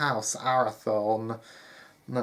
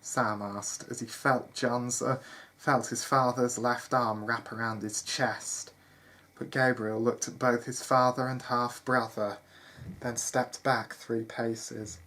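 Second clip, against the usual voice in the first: measured storyteller delivery; story narration. A narrator's reading. Narrator telling listeners of John leaving the manor, story narration. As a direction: read it out as a tale.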